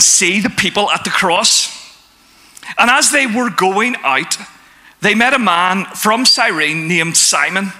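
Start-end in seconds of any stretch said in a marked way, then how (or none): 2.8-7.7 measured, solemn Bible reading with the quotes lightly voiced; scripture reading. Reads Matthew 27 aloud.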